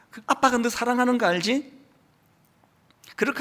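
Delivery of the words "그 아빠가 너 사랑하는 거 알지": tender father. Retold or imitated. Father's tender words to daughter.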